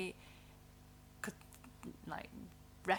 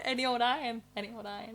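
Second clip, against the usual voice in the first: drawn-out sing-song street cry; 3 semitones higher, much faster than usual. Pretend. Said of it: "that was meant to be like".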